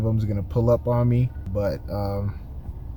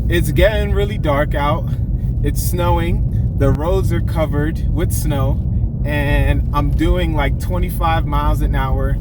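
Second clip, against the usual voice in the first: on edge; 4 dB louder than usual. Real, not acted. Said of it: "on edge a little bit".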